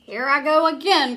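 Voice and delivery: high, loud whoop in flight; cheerful storybook cry. Acted. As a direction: yelp it as he's hurled up. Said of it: "cried Grover".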